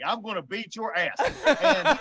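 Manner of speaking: chuckling through the thought; gleeful, laughing threat. Retold or imitated. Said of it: "and I'm thinking".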